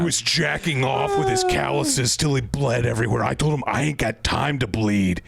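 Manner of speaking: Jesse Ventura impression. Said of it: "can you do an impression of Jesse Ventura?".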